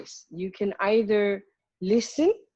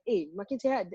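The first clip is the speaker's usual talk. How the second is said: concerned tone. Shown as a demonstration. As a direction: check in with concern, voice falling. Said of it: "that is a concern tone".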